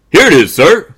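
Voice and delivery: high, loud eager exclamation; keeper crying out. Acted. Keeper finding the lost wallet for a customer, loud cry. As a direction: sing out the discovery. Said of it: "cried the keeper".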